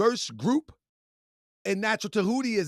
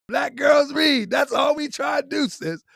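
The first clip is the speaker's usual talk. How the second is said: rallying shout; 4 semitones higher, 3 dB louder than usual. Real, not acted. Rallying cry to viewers.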